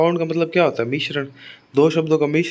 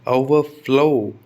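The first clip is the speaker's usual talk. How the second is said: ओवरफ्लो slowly, with FLOW given more force and length; stress on FLOW; much slower than usual. Shown as a demonstration. Teacher recapping the rule, slow stress on FLOW. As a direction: make the फ्लो of ओवरफ्लो stand out. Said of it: "higher louder बोला जाएगा".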